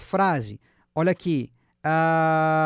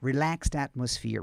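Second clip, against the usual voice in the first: slow, careful, lower pitch; slow model reading; 4 semitones lower, slower than usual. Shown as a demonstration. Teacher modelling the sentence's ending for students, slowly. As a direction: say it slowly for repetition. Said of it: "Pega devagarzinho".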